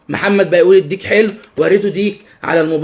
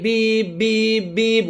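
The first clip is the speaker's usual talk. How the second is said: car horn beeps; 2 semitones higher, 6 dB quieter, much slower than usual. Shown as a demonstration. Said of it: "بأسلوب فيه فرح ومرح".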